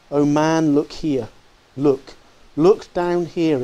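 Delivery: a mild exclamation, stretching out look down here; ghost exclaiming. Acted. Ghost urging Scrooge to look at the children, mild exclamation. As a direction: call him to look down, slowing at the end. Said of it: "exclaimed the ghost".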